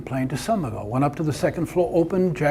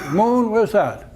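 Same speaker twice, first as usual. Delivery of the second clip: put-on confused old admiral; 6 semitones higher, 6 dB louder, slower than usual.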